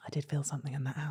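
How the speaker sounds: low, soft, quick mumble; sheepish admission. Retold or imitated. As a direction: imitate mum owning up under her breath. Mum's reluctant admission, retold.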